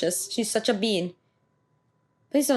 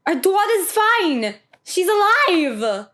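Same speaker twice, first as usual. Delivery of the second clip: relieved, moved; 7 semitones higher, 4 dB louder, slower than usual. Real, not acted. Moved by a reunion scene.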